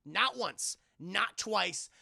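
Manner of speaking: amused disbelief. Real, not acted. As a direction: hammer home the absurdity laughing. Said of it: "emphatic disbelief".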